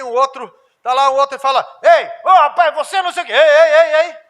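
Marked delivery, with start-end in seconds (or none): 1.8-4.2 much louder, higher brotherly shouting; sons squabbling. Retold or imitated. Pastor imitating his sons quarrelling at home, loud shouting. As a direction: yell at your brother.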